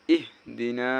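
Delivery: "ইহ দি না" with the final "না" held long; drawn-out vowel. Shown as a demonstration. Teacher showing where the stretch comes, "না" drawn out. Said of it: "এখানে একটু টান হবে".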